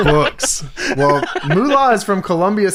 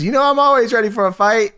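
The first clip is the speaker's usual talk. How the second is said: higher-pitched wrestler impression; Moolah; 6 semitones higher than usual. Veteran wrestler answering her rival, hammed-up impression. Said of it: "That's a great Moolah impression".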